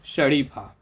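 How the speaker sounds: शरीफा said with palatal श; शरीफा, tongue on the palate for श; pronounce शरीफा. Shown as a demonstration. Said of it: "तीनों शब्द का उच्चारण कीजिए". (तालव्य श के साथ शरीफा)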